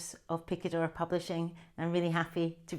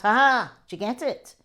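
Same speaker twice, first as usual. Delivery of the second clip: louder teasing "ha ha" of a brother; mock laughing brother; 5 semitones higher, 8 dB louder than usual. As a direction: tease her with a staged laugh. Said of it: "my brother laughs".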